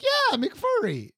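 very high, drawn-out impression of dad; dad's exaggerated Chinese accent, high and slow; imitating accented dad. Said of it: "And he's like".

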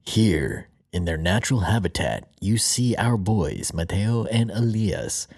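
slow hushed wildlife narrator; nature documentary. Pretend. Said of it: "That sounds more like National Geographic".

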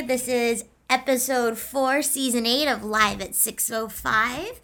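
slow, drawn-out announcer opening; podcast show intro. Real, not acted. Host welcoming listeners to the episode, announcer style. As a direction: open the show, stretching the key words.

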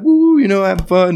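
high cheering woo; excited cheer. Retold or imitated. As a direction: whoop it up for the video. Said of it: "I was like".

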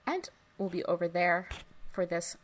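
lightly robotic read, pausing between chunks; little robot voice. Real, not acted. Host reading out the bonus episode plug, in a little robot voice. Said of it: "in a little robot voice".

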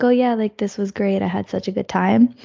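lightly flat, deadpan delivery; monotone voice. Retold or imitated. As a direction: say it with barely any lift, half-hearted. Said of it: "in a very monotone voice".

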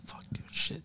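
barely audible whispered swearing; whispered cursing. Retold or imitated. Remote worker muttering curses to himself at home, whispered. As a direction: curse under your breath in a whisper. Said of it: "I was whispering to them".

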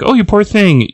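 high-pitched acted sympathy; pity. Heroine to a caged baby creature, acted pity. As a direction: coo it high, as if pitying a creature.

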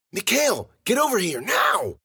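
high, loud command; commanding, high-pitched yell; urgent shout. A narrator's reading. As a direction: yell them back to safety at once. Sister shouting as ground shakes.

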